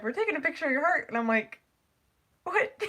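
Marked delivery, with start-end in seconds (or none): 0.0-1.1 higher, quick, giggling nurse quote; laughing retelling of the nurse; laughing through it. Retold or imitated. 2.4-2.8 high squeaky what; mock shocked squeak. Shocked reaction quoted.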